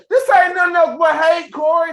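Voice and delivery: loud "this ain't nothing else but hate"; loud angry call to Corey; shouted declaration. Real, not acted. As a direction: hammer it out loud.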